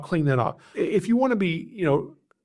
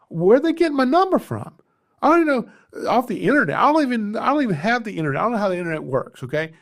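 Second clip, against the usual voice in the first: retold rant, much higher and louder, words tumbling out fast; exasperated rant; 7 semitones higher, 5 dB louder, faster than usual. Frazzled homeowner complaining to the snake rescuer, higher and louder. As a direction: play the flustered homeowner who can't understand where the callers got his number. Frantic homeowner swamped with calls.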